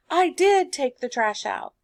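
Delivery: firm stress on DID; emphatic DID. Acted. Student looking back at mom, emphatic stress on DID. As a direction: hit "did" to insist it was done. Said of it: "That's emphatic".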